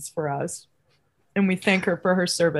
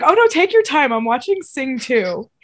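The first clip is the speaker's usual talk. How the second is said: a touch higher, sweetly casual sister; lightly voiced sister, then slowing on Sing two; mock sister voice; 4 semitones higher, 3 dB louder than usual. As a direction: lightly play the unbothered sister. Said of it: "And Sarah's like".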